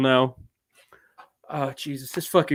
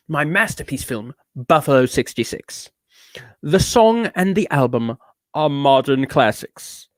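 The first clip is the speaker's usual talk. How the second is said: affected British-tinged reviewer; deliberate, self-important reading; pompous reviewer character. Acted.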